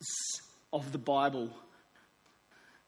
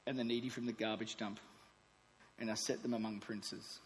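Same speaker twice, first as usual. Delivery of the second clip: God's love letter; 3 semitones lower than usual. Acted. God writing to His precious child, gentle and tender. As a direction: read it like a father's tender letter. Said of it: "Might sound a bit like this".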